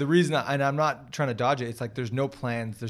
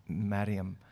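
put-on Miriam in a slow Scottish accent, R tapped almost like a D; puzzling out a Scottish-accented "Miriam"; Scottish pronunciation; 3 semitones lower than usual. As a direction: imitate a Scottish "Miriam", drawn out. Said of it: "it sounds Scottish".

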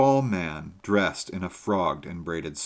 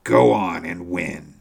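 louder, slow, egging him on; loud, slow urging; 6 dB louder than usual. A narrator's reading. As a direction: push him to keep playing. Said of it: "cried my military friend".

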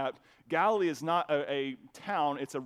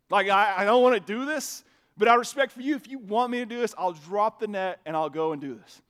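louder, slowed, bitter reluctance; grudging respect through gritted annoyance; frustrated Peter; 6 dB louder than usual. Retold or imitated. Peter answering Jesus, louder and bitterly reluctant. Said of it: "do you feel the frustration".

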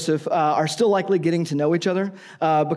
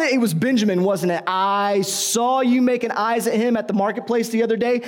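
jealous accusation; 4 semitones higher than usual. Retold or imitated. Jealous Joseph accuses Mary.

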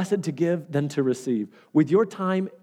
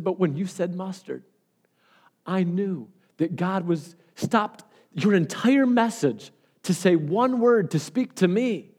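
imitating choked-up woman; 3 semitones higher, slower than usual. Woman telling the pastor what his one word meant, choked up. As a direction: act out her overwhelmed realization, drawing words out. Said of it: "she could hardly talk as she was saying it".

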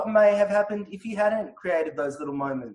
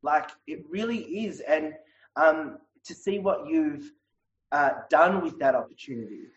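shaky sigh. Real, not acted. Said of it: "I'll just cry it out".

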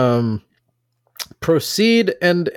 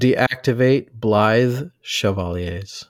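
slow; 2 semitones lower, much slower than usual. Shown as a demonstration. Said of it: "take it one word at a time".

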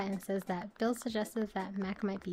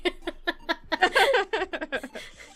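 nervous laugh; 8 semitones higher, 4 dB louder than usual. Shown as a demonstration. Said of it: "Do your nervous laugh in Animal Crossing".

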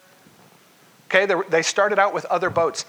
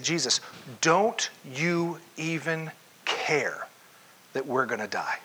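slow pleading; 3 dB quieter than usual. Acted. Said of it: "They said".

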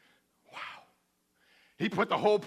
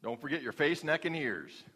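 mom's reminder; 4 semitones lower, 5 dB quieter than usual. Retold or imitated. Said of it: "my mom's saying was".

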